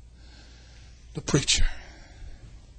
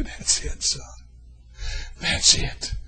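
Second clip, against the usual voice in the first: voice of God; 2 semitones lower, 3 dB quieter, slower than usual. Acted. God speaking to his son.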